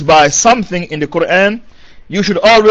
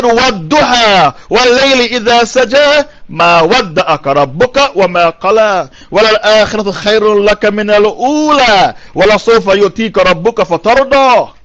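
Quran recitation; much faster than usual. Acted. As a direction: recite the verses, sustaining the long vowels.

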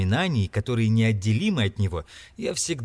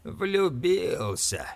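slow, scornful grumble; grumbling scorn; 8 semitones higher, much slower than usual. A narrator's reading. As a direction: drag it out as a folly. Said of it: "проворчал Скрудж таким тоном". (медленно, презрительно ворча)

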